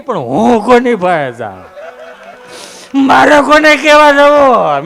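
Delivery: laughing lament. Acted. Comic lament, who do I tell.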